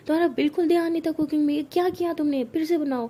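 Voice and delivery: mother ordering the dish cooked again, scolding. Acted. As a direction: tell her off and order a redo. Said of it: "मम्मा कहती".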